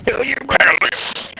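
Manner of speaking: unvoiced mock-threat whisper. Real, not acted. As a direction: hiss a playful warning.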